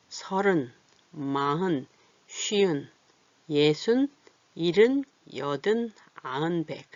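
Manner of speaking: each number from 서른 to 백 said on its own; deliberate word-by-word teacher's count from 서른; spaced-out counting. Shown as a demonstration. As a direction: read 서른 through 백 with clear gaps between words. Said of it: "띄어 읽어볼까요?".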